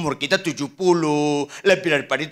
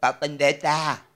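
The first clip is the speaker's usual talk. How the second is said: put-on slow old person's call; elderly Popo; 3 semitones lower, slower than usual. Eighty-nine-year-old calling the pastor, slow and aged. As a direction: drag it out like someone very old.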